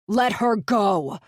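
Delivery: loud, slow desperate demand; shout. Acted. Sykes lunging at the kidnapper, slow loud shout. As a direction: yell it with everything.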